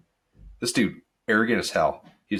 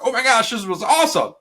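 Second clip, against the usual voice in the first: much higher, louder gushing; mock delight; 12 semitones higher, 5 dB louder than usual. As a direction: gasp it out like a delighted fan. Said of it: "you're like".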